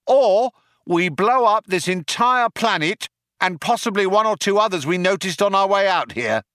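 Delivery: high-pitched shouted ultimatum. A narrator's reading. Cop gives the group an ultimatum, shouted. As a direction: shout terms across to the cornered suspects. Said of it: "shouted the cop".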